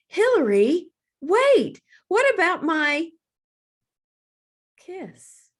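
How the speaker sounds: high call fading away; mother calling after her departing daughter. A narrator's reading. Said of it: "Her voice trailed off".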